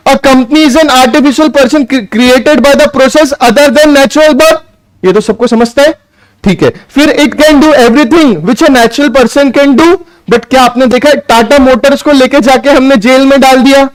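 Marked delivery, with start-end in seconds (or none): 0.1-4.6 slow, word by word for note taking; dictating pace; slow dictation. Shown as a demonstration. Dictating a definition to students. 7.2-9.9 slow, word by word for note taking; dictating pace; slow dictation. Shown as a demonstration. Dictating to students.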